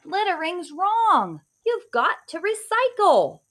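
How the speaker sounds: high, loud superhero declaration; heroic scolding. Acted. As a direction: proclaim it like a caped crusader. Hero scolds litterbug.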